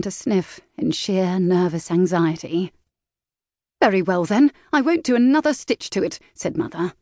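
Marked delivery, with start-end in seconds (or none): 3.8-6.2 angry in earnest. A narrator's reading. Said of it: "now angry in earnest".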